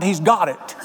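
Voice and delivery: mock excited holler from the crowd; hammed-up revival-meeting cry; retold holler. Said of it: "They hollered".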